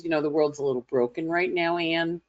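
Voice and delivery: fast, matter-of-fact aside; friend's quip. Retold or imitated. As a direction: rattle it off like a pithy friend. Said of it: "she always goes".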